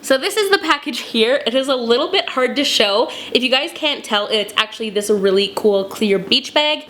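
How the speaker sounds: hoarse voice from a cold; sick voice. Real, not acted. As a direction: talk through a lingering cold. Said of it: "Please excuse my voice".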